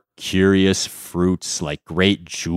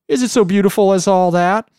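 astonished monkey; 13 semitones higher, 5 dB louder, faster than usual. Acted. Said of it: "asked the monkey in astonishment".

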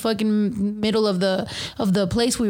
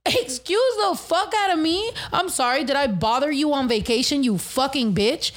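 sarcastic fury, pitched way up; imagined cuss-out; 3 semitones higher than usual. Pretend. Telling off the rude airline agent, high mock outrage. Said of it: "that's not what I said".

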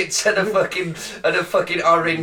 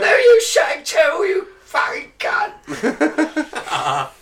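swearing tirade; 12 semitones higher, 4 dB louder, much slower than usual. Retold or imitated. Mocking guest's accusation.

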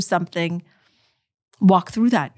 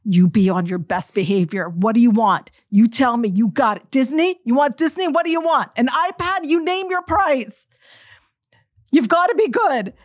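pleading with son; 3 semitones higher than usual. Retold or imitated. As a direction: bargain sweetly with your kid. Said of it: "And I'm like".

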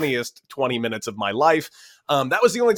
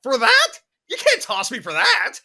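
outraged disbelief; 11 semitones higher than usual. Retold or imitated. Ejected batter protesting to umpire, high outraged disbelief. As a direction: voice shoots up in outrage, then settles.

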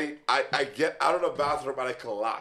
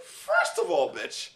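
squeaky indignant correction; high, offended defence; high indignant protest; 4 semitones higher than usual. Retold or imitated. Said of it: "I was like".

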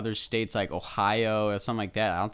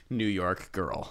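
mock New York accent; much slower than usual. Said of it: "most annoying accents".

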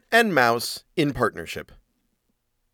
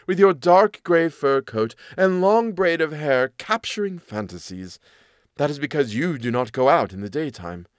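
a hint of a dismissive cat; chiding cat; 3 semitones higher than usual. Cat dismissing the mouse's worries, lightly voiced and chiding.

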